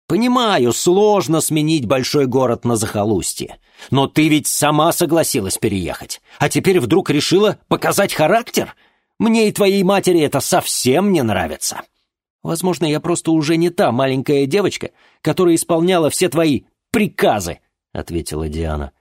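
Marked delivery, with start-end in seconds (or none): 0.1-11.8 high, loud reproachful rant; angry lecturing father. Acted. 12.4-17.6 high, loud cutting reply; defiant daughter. Acted. Daughter answers back.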